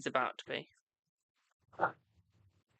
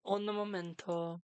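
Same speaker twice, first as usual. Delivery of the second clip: drawn-out stall; slower than usual. Real, not acted. Stalling while chat loads.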